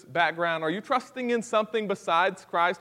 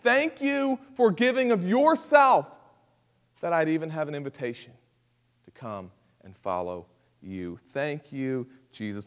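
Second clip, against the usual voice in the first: grateful prayer. Pretend. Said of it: "But we'll stand before God and say".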